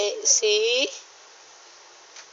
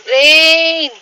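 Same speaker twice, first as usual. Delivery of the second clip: calling out; 4 semitones higher, 9 dB louder than usual. Real, not acted. Calling out for Rain.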